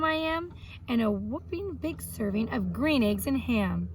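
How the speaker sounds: lively storybook read-aloud for a class; reading to children. Acted. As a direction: tell it like a story for young kids. Teacher reads picture-book biography aloud.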